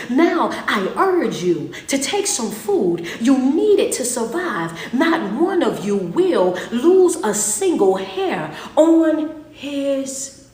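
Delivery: slow, loud, emphatic reading of Paul's words; preacher booming Paul's command; forceful urging. Acted. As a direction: press each word on the listeners. Paul's words read out twice.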